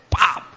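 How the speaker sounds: sharp, punchy pop; sudden impact noise; imitated punch sound. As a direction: throw out a quick "pop" like a blow landing.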